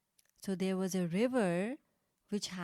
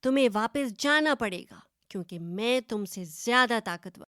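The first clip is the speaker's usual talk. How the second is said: loud and fast, puffed-up boast; bragging goat throwing its weight around; first goat boasting arrogantly at the second; 6 dB louder, much faster than usual. Acted. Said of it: "अकड़ कर जवाब दिया".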